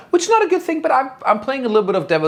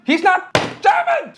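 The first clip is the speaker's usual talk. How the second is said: mock insistence; slower than usual. Joking denial about Hitler.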